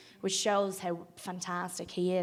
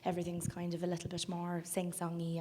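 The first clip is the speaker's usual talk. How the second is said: softer, lightly sing-song Wexford lilt; a subtle Wexford accent, a little softer; 5 dB quieter than usual. Shown as a demonstration. Actress shows interviewer her character's accent, subtle soft Wexford. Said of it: "me doing my example of a Wexford accent".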